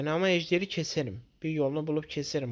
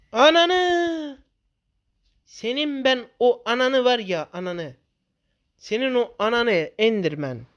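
screaming curses at the Enderman, much higher and louder; furious shout; 9 semitones higher, 8 dB louder than usual. Real, not acted. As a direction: yell at the mob in pure rage. Enderman kills him in game. (Enderman'a avazı çıktığı kadar öfkeyle bağırarak)

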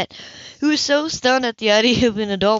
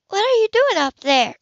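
much higher, called across the water; calling out; 12 semitones higher, 5 dB louder than usual. Acted. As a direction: call up to him on the boat. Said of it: "Anna called out".

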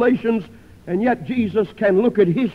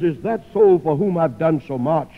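shocked disbelief; 2 semitones higher than usual. Acted. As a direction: voice Christ's horror as he asks if the soul is dead. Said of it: "He looks down in shock and he says".

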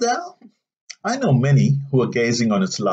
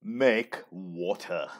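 hushed; 6 semitones lower, 8 dB quieter, much slower than usual. Acted. Confides an urgent private need.

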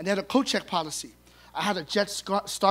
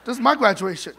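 laughing protest; 3 semitones higher, 10 dB louder than usual. Retold or imitated.

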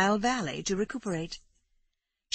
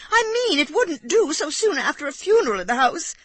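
much higher, louder, flustered lady; Amanda flustered; 11 semitones higher, 7 dB louder than usual. A narrator's reading. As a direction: cover herself nervously, pitched high. Amanda hastily justifying herself.

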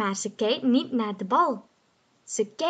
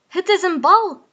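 high, loud happy call; Wolf calls out his find, high and loud; 8 semitones higher, 8 dB louder than usual. Acted. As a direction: shout the discovery with delight. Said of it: "roept hij".

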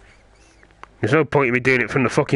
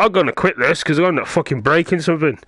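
fast, raised-pitch frustrated rant; fed-up rant; 5 semitones higher, faster than usual. Real, not acted. Gamer lost in the lab threatening to quit, fed-up rant. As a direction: rattle it off, wound up and exasperated. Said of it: "I'm getting fed up".

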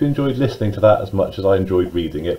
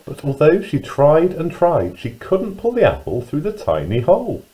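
put-on lively, singsong storyteller reading to young children; children's story narration; 5 semitones higher than usual. A narrator's reading. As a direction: read it with big pitch swoops on key words.

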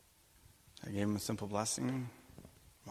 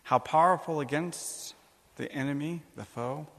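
preacher building toward a cry of praise; rising proclamation; 4 semitones higher, 3 dB louder than usual. Real, not acted. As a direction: lift "powerful" into a ringing proclamation. Repeated praise, rising louder.

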